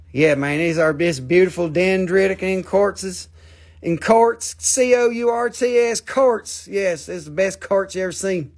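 imitated mix of Southern and Pakistani accents. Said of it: "He got his Southern accent with his Pakistani accent".

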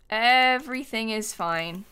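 drawn-out "Everything is fine"; slow, stretched out. Real, not acted. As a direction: stretch "Everything" slowly, as if calming yourself. Repeats it to calm self.

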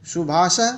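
"शुभाशः" repeated as a careful model; correct pronunciation. Shown as a demonstration. Teacher modelling a word for children, correct pronunciation. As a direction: say "शुभाशः" correctly for pupils to copy. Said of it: "का शुद्ध उच्चारण करके बच्चों को बताएंगे".

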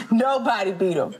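said through a laugh; laughing as she repeats it. Real, not acted.

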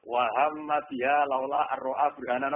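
resume from "Wa hamma", linking "biha" straight into "laula"; run on through "biha". Shown as a demonstration. Teacher showing a reciter's reading, "biha laula" joined without a stop. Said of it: "Kalau sudah, bacanya gini".

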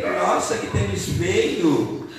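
mock grumpy disapproval; Zé Coração. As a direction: sneer at it like a killjoy. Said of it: "ele não acha nada bonito".

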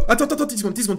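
high, loud, laughing plea to wait; real laughing outburst. Real, not acted. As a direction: beg for a moment while cracking up. Bursts out at the game. (hilare, voix aiguë)

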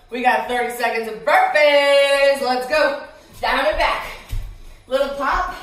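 pumping up the class loudly; loud, hyped workout cue; loud coach call. Real, not acted. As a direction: call it out to push them. Coach calling start of burpees.

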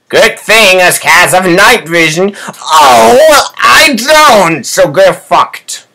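mock cat voice. Cat voice, crying shout.

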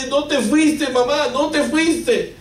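high, slow, pleading relief; tearful relief. Retold or imitated. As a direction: say it slowly, almost sobbing with relief. Son clinging to returned mother.

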